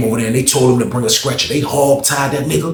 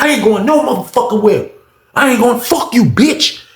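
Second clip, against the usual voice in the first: high, heated mock refusal; acted angry defiance; 9 semitones higher than usual. Inmate refusing the officer's threat, angry and defiant. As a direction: act out a defiant inmate, voice pitched up.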